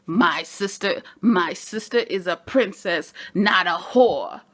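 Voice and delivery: slow, firm, offended brother defending his sister; indignant defense. Retold or imitated. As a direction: drag it out, each word weighed, rising offence.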